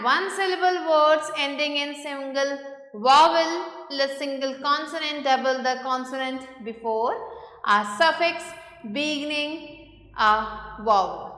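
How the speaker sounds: slow, deliberate reading of a textbook rule; measured classroom dictation pace; reading rule aloud. Acted. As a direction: read each phrase out slowly for the class. Reads the spelling rule aloud.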